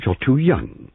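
high-pitched disapproval; disapproving. A narrator's reading. Older woman judging the young sergeant, disapproving. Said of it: "she said disapprovingly".

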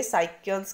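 "साइकियंस" with an s start and hard k; alternative pronunciation. Shown as a demonstration. Teacher asking students how it is pronounced, alternative pronunciation. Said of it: "इसको क्या pronounce करेंगे".

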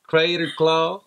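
lightly put-on Southern accent; mock Southern accent. Husband amusing his wife, mock Southern accent. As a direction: read it with a silly Southern twang. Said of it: "If you're Southern and talk like this".

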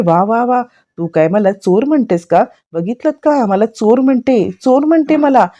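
grandma staging hurt outrage to the family; mock outrage. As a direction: make a big show of being accused. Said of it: "आजी कांगावा करते".

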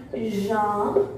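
"Janvier" broken in two with a pause; "Janvier" in two separated syllables. Shown as a demonstration. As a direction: sound out "Janvier" slowly for learners. Teacher splits the word for learners.

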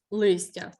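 "листя" said alone, first syllable clearly stressed. Shown as a demonstration. Teacher proving the vowel is clearly heard, stressed И in "листя". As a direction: make the И in "листя" plainly audible. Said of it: "чітко чути".

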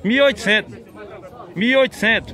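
repeated price hollered at the cattle fair; calling out price. Real, not acted. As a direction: call the price out over the crowd.

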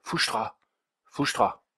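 short Auvergnat oaths traded back and forth; Auvergnat accent. A narrator's reading. Two men trading oaths, Auvergnat accent. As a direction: swear in Auvergnat dialect. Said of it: "dans le plus pur charabia".

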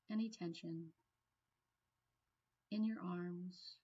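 calm meditation guide, long pauses between phrases; guided meditation. Real, not acted. Trainer guiding a listener into a peaceful place, guided meditation. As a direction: ease them gently into relaxing, leaving room to breathe.

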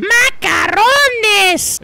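drawn-out high holler; silly shout. Pretend. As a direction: stretch the word into a shout.

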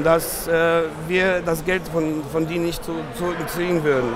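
non-native German accent. Real, not acted. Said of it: "mein Deutsch ist vielleicht nicht so gut".

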